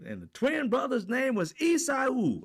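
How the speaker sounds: high, loud preacher saying Esau as isaɪu; mispronouncing pastor. Retold or imitated. Pastor announcing the twin brother's name, loud mispronounced preach. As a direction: proclaim it grandly, name mangled. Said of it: "what he said, like".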